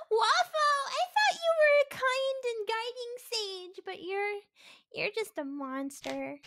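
a hammed-up wounded friend; mock betrayal fading to a sulk; mock heartbroken. Mock betrayal after prank.

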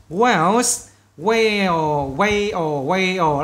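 "Whales" and "whale" said slowly and clearly, final sound marked; English word demo. Shown as a demonstration. Teacher to students, careful English model pronunciation. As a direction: model "whale" for the class to copy. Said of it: "Các bạn xem các bạn thấy đúng không?".

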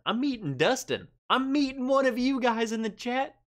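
building delight at the news; excited. Real, not acted. Host tells chat he'll meet viewer Dustin, growing excitement.

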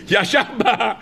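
chuckling through the words; amused, laughing aside. Real, not acted. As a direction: laugh while mocking him. Mocking a gloomy groom.

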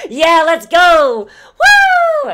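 loud, high, laughing battle cry; cackling madly. Acted. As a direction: shout it like a gleeful berserker. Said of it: "cackling madly and just going fucking bananas".

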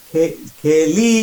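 "খেলি" slowly split, ending stretched; drawn-out ending. Shown as a demonstration. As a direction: break "খেলি" into root and long rising ending. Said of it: "পাশে বিভিন্ন জিনিস যোগ হলো". ("খেলি" ভেঙে, শেষটা টেনে)

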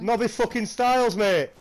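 put-on brash northern English accent character; hammed-up northern English accent. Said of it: "you do some good accents".

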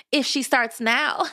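high, drawn-out taunt with a touch of laughter; mocking laugh. A narrator's reading. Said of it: "laughed Drusilla".

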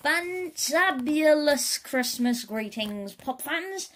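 high, loud, slow showbiz call; announcer call. Acted. TV announcer greets pop fans, loud and showy. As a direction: sell it like a TV host. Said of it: "called the announcer".

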